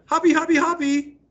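put-on high, squeaky baby talk; toddler babble. Teacher reading, voicing toddler's babbled happy. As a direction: chirp it like a toddler trying to say happy. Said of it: "sounded like".

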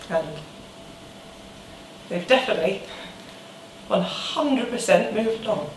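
low, soft, halting confession; subdued heartbreak. Acted. Ex admitting the other has moved on, subdued heartbreak. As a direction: let it sink quietly, with long pauses.

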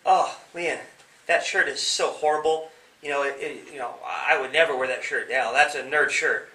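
loud sneering schoolyard jeer; mock the kid's shirt like a playground bully; a bully jeering at a classmate's shirt; mocking bully taunt. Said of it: "And they say".

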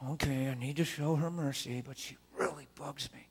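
a put-on nice voice through gritted teeth; hammed-up fake mercy; fake sweetness. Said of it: "You're not trying to be merciful".

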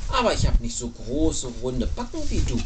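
lightly voiced lady penguin, a bit low; sighing penguin. A narrator's reading. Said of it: "seufzte Frau Pinguin".

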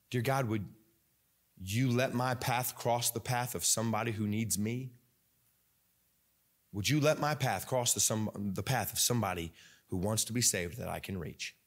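soft-edged, measured petition; humble prayer. Shown as a demonstration. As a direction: ask God earnestly. Models a prayer to God.

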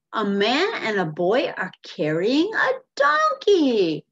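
loud storekeeper's acted astonishment, building to the end; emphatic exclamation. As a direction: exclaim it like you really mean it. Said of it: "That means we really mean it".

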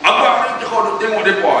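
a wife's sharp retold rebuke; imitated scolding wife. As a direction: snap at him like a nagging wife. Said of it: "dia tengking saya".

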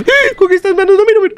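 very high squealed complaint; chillido agudo. Real, not acted. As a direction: squeal it in comic panic. Manos del juego le tapan la vista. (queja chillona, muy aguda)

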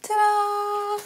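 loud proud reveal; excited. Acted. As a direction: announce it with a flourish. Proudly revealing her work.

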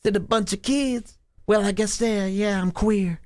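high, soft mock reply; mock opponent. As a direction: squeak out a lame comeback. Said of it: "And then you go".

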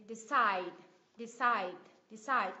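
"decide" with CIDE stressed; second-syllable stress. Shown as a demonstration. Teacher drilling the verb "decide", stress on CIDE. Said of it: "động từ, nhấn vào tiết thứ".

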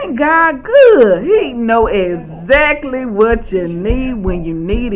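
slow testimony, savoring every word; rapturous praise. Real, not acted. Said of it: "I said".

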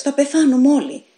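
high, loud despairing wail; groaning in fear. A narrator's reading. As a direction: groan it as if doomed. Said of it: "έλεγε στενάζοντας".

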